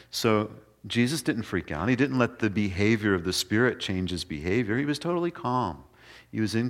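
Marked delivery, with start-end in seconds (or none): none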